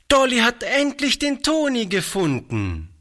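put-on a small girl bursting with excitement; excited little girl. A narrator's reading. Dolly tells everyone she found Toni, high excited child voice. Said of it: "Stimmchen zitterte vor Erregung".

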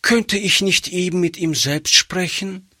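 put-on little girl. A narrator's reading. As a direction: speak as a shy little girl. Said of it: "fragte Gretchen". (kleines Mädchen, höhere Stimme)

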